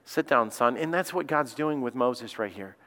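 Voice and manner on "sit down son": a touch of a tender dad easing his son down; lightly voiced loving father, slowed; gentle loving father. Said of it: "that loving Father".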